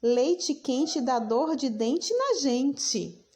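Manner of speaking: slowly, savouring the sounds of each word; playful tongue twister. Shown as a demonstration. Teacher models a tongue twister for children, slow and playful. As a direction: play with the sounds, unhurried. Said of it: "brinque com os sons das palavras".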